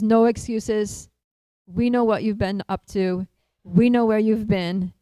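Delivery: mildly stern, slow and emphatic reproach; mock scolding with firm, measured stresses. Lalita tells late Krishna no excuses, stern scolding.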